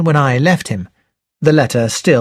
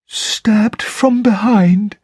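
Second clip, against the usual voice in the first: slow, hushed butler murmur; 7 semitones higher, much slower than usual. Acted. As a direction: murmur it over the body. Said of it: "Parker murmured".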